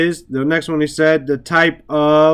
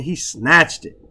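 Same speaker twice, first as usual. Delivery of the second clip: SNATCHED punched for emphasis; emphatic stress. Shown as a demonstration. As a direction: hit the word "snatched" hard. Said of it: "we say it like this".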